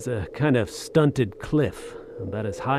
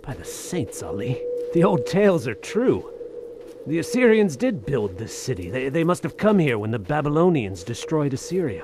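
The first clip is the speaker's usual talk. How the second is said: higher, eager, breathless discovery; excited wonder; 4 semitones higher than usual. Acted. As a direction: tumble out the realisation. Marvelling at ancient ruins.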